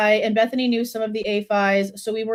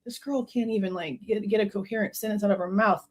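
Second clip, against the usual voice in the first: much softer, scornful aside; scornful mutter; 7 dB quieter than usual. Real, not acted. Commentator scoffing at the witness, much softer. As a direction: mutter it under your breath with contempt.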